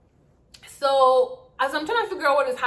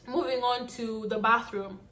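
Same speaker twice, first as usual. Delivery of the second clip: voice breaking. Real, not acted. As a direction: voice cracks slightly mid-phrase. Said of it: "my voice broke".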